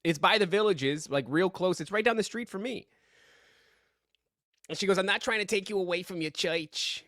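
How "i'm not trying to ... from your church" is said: put-on a light sweet old lady voice. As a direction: gently voice a church lady inviting you. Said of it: "that's in my old lady voice for everybody".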